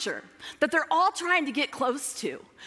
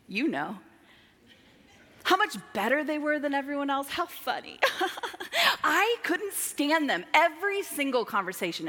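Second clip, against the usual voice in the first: usual speaking voice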